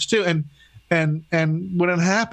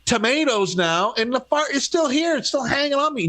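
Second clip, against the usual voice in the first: high exasperated voice; 5 semitones higher than usual. Retold or imitated. Acted fart complaint.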